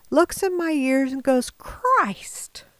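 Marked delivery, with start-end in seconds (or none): 1.5-2.6 much higher, sharp shocked outburst; the doctor can't believe what he sees; startled exclamation. Retold or imitated. Doctor examining the sick patient's ears, shocked exclamation.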